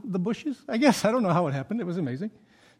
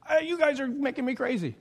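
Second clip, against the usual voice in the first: mock venting in a raised pitch; exasperated; 7 semitones higher than usual. Homeowner venting at the delivery men, exasperated. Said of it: "take out our frustration on someone else".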